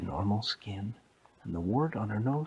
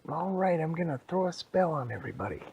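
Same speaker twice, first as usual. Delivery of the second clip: high, quick declaration; spell-casting storybook woman; witch announcing a spell; 7 semitones higher, faster than usual. Acted. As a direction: proclaim it high before casting.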